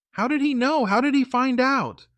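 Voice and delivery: high, panicked thought; panicked girlfriend. Retold or imitated. Her imagined panicked thought.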